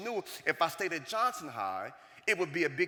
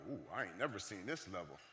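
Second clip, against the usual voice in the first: hushed dread; 8 semitones lower, 10 dB quieter than usual. Retold or imitated. Son's stunned thought as mom trembles.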